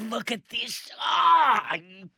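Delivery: high, loud sudden outburst; excited shout. Real, not acted. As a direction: yelp out at the screen. Reacting live to race replay.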